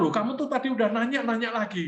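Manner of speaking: put-on high, half-amused scolding of a child; mock exasperation at a repeat question; exasperated dad.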